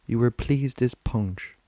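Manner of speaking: measured dramatic reading with many pauses; literary monologue recitation. Acted. Weary Anna Livia reflecting on her life and husband, musing recitation. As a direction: recite as a weary woman's lilting reverie.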